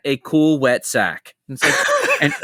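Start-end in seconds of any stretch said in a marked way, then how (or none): 0.1-1.3 slow, deliberate cartoon lecturer; imitated instructor spelling it out; Simpsons parenting instructor. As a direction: finish the cartoon lesson slowly, falling at the end. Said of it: "that clip from The Simpsons".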